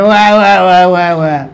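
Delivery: mock wailing "wah wah wah", trailing down; a preacher's imitation of a bawling baby; imitated baby cry. Teacher showing how babies call their mother, imitated wail. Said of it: "they cried for their mother".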